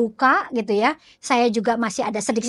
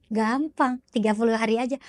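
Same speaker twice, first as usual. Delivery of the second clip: matter-of-fact confirmation. Acted. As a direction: confirm it evenly, with no fuss. Healer confirms the task is easy.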